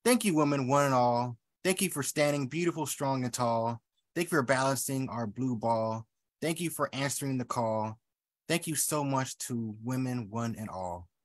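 rhythmic, measured thank-you litany; poem reading. Acted. Poet thanking women in a poem, measured. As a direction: read it as a tribute.

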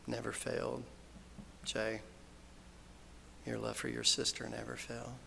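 soft, hushed words of comfort; real quiet consolation; tender reassurance. Real, not acted. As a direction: speak gently to each mourner, with long pauses. Eulogist consoles grieving family by name.

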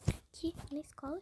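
breathy whispered aside; a soft unvoiced whisper. Real, not acted. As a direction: whisper it to the viewers.

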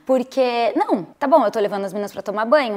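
normal talking voice

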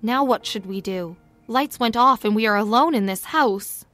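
a touch of anxiety; anxious. Acted. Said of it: "Madeline probed in an anxious voice".

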